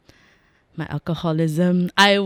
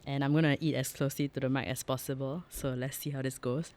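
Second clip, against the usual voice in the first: soft ASMR voice; 3 semitones lower, 10 dB quieter than usual. Real, not acted. ASMR eating close to the mic.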